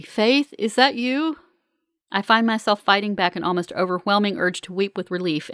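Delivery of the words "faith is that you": weak, higher-pitched questioning; faint hope from an injured man. A narrator's reading. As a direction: ask it feebly, as if injured. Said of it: "Arden's voice say weakly".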